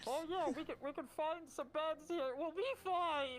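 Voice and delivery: high, loud voice muffled through a mask; a creature muffled behind its mask. Acted. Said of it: "through the muffled mask".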